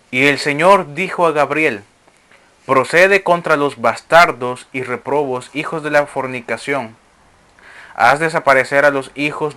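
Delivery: measured, declamatory reading of sacred text; formal reading to a congregation; scripture reading. Acted. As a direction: read it out as solemn scripture. Reads scripture aloud to listeners.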